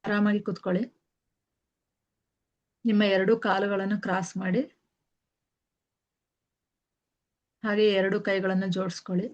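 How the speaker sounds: slightly softened meditation guide, long pauses between instructions; guided meditation. Real, not acted. Teacher guiding listeners to sit and close their eyes, calm meditation voice. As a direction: settle them in gently, one instruction at a time.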